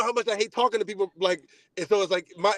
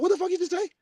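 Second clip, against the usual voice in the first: higher, furious retold yell; raised furious retelling; angry cussing; 10 semitones higher, faster than usual. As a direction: chew him out over the phone. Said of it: "I start cussing".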